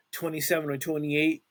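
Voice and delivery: talking through a yawn; words stretched by a yawn. Real, not acted. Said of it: "I'm sorry for yawning".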